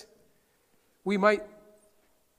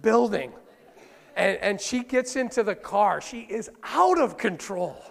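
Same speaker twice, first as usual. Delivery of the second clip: laughing through it, slow; can barely hold the laugh; giggling while telling the joke; 4 semitones higher, 4 dB louder, slower than usual. Real, not acted. Comic continuation while laughing.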